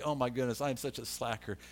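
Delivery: low, soft aside to himself; quietly self-mocking inner thought; muted self-reproach. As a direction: groan at yourself under the voice, trailing down. Berating himself in the story.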